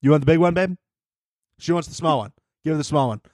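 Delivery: lightly voiced doting boyfriend; a hint of the a-hole guy; imitating SNL couple. Mimicking a sketch boyfriend pampering his girlfriend, lightly voiced. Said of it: "and he's like".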